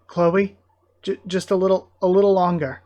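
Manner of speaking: lifted, stammering encouragement; urgent pleading. Acted. Leo urging Chloe to hold on a little longer, urgent pleading. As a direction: urge them to hold on, tripping over the words.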